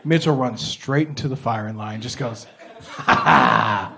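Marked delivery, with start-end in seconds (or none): 3.0-3.9 low mock "ha ha"; deep, forced laugh. Mitchell's fake laugh charging the firing line.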